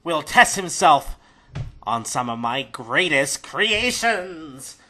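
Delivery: drawn-out, slightly theatrical announcement; slow down grandly toward the end; gnome showman. Acted. Gnome announces the challenge to the crowd, mild showman's voice.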